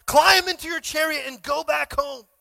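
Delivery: loud urgent prophet's call; a prophet shouting urgent orders; Elijah shouting. Retold or imitated. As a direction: shout the warning to hurry. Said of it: "Elijah shouted".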